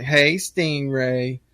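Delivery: slow drawn-out "Hey, Stingray"; flirty greeting. Retold or imitated. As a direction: draw it out like a coy wife. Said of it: "she's like".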